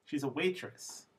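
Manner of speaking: "waitress" lifted as the focus; stress on waitress. Shown as a demonstration. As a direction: land the pitch on "waitress". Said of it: "Waitress is new information".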